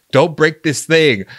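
high, loud, slow pleading; desperate plea. Pretend. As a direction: beg him not to break it. Pleading with Shyamalan.

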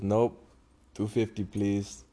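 lightly imitated Indian accent, slowing down. Bus driver refusing a free re-boarding, imitated Indian accent. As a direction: put on a hint of an Indian accent. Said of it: "In his thick accent".

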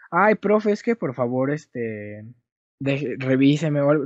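súplica burlona. Retold or imitated. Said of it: "yo nunca he sido de rogarle".

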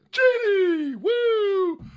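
high, loud cheering shout; excited whoop. Acted. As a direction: whoop it out to the crowd. Hyped shout-out from chat.

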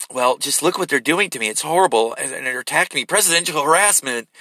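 mock self-pitying complaint; Donald Trump. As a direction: imitate someone playing the poor victim. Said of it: "You sound like a little fucking girl".

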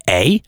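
imitated Canadian "eh" tag. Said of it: "the speech patterns".

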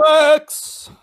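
a quick cheering shout of approval; emphatic exclamation. Real, not acted. Cohost cheering a jab in the argument, high excited shout. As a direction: blurt it out high and sharp in agreement.

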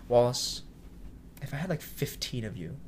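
understated, sincere praise in pauses; genuine. Retold or imitated. Mentor praising a young cook, genuine. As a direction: say it simply, leaving space between phrases. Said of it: "it was very genuine".

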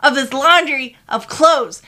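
loud, angry insistence. Retold or imitated. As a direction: tell him off, furious. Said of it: "I said".

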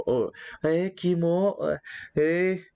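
imitating people weirded out by a stranger; imitated disgusted onlookers. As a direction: lightly voice grossed-out onlookers. Imitating students staring at him.

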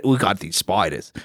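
low, soft mock Australian accent; understated Australian twang. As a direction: boast in a joking Australian accent. Voices proud Australians showing off spiders.

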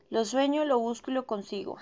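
upbeat mantra, a bit hammed-up; positive affirmation. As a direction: proclaim it as a self-help affirmation. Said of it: "afirmación positiva".

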